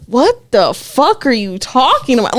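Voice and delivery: drawn-out stunned retort, slowed down; retold disbelief, stretching out the words; caught off guard. Friend retelling her reply to a lesbian accusation, caught off guard. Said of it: "literally cut off guard".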